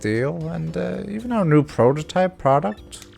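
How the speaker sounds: high, hesitant, stammering businessman voice; nervous businessman. Acted. Businessman reporting his lost briefcase, nervous and high.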